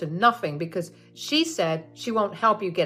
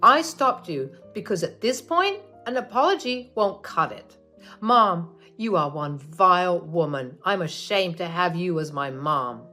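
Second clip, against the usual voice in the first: louder cold condemnation; angry son; 6 dB louder than usual. Acted. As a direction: tell your mother she is vile. Son condemns his mother.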